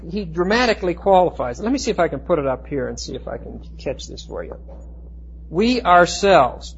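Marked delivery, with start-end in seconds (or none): 5.5-6.7 "We" hit hard and "ourselves" stretched slowly; emphatic we. Shown as a demonstration. Teacher writes the verse up and shows its emphasis, slow stress. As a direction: press the word "We". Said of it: "very emphatic".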